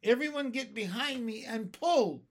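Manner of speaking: rally the crew to haul; shouting orders. A narrator's reading. Grasshopper calls everyone to pull the string, a high loud rallying shout. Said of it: "shouted the old green grasshopper".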